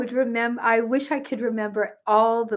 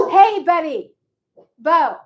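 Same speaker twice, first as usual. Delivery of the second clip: loud, raised-pitch call to the dog; high, forceful yell across the room; real yelling; 7 semitones higher, 7 dB louder, slower than usual. Real, not acted. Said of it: "forgive me for screaming into the phone".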